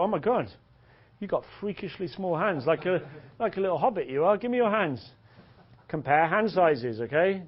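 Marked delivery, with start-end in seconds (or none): 0.0-5.0 acted surprise, pitched a little up; sudden mock surprise. Coach demonstrates suddenly noticing her hand, mock surprise. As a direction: pretend you have just noticed. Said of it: "Suddenly notice her hand and go".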